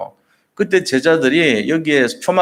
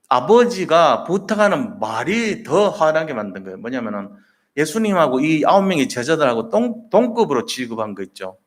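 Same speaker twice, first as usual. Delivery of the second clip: ordinary delivery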